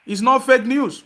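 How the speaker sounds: angry denial. Real, not acted. Host shutting down a caller's fake news claim, slow and loud. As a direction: lean into each word, firm and heated.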